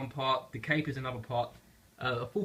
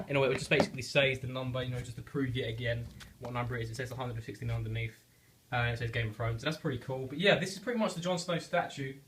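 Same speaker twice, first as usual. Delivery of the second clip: blocked nose from a cold; stuffy nose. Real, not acted. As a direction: talk through a stuffy nose. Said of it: "Sorry, I've got a cold".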